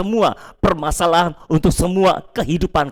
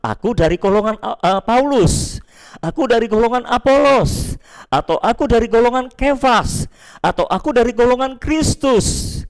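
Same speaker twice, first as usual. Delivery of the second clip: lightly acted rival partisans, higher pitch; a hint of proud declaration, pitched up; factional follower; 5 semitones higher than usual. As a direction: voice each faction declaring its allegiance. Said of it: "kamu masing-masing berkata".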